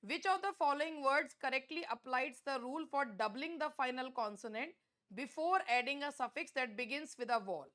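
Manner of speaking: reads the exam question out very slowly; deliberate test-question read-aloud. Acted. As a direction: spell out each word of the question for the class. Rereads the same question.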